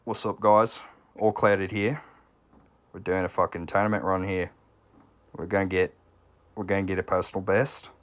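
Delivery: lightly put-on accent of a fellow streamer; All Clouded accent. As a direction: do a streamer's accent, imitating their video intro. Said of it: "My All Clouded accent is much better".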